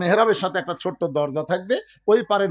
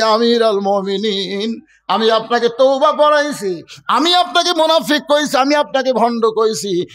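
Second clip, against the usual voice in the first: frantic remorse. Acted. Shepherd confessing his insults to the caliph, distraught remorse. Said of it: "পাগলের মতন বলে".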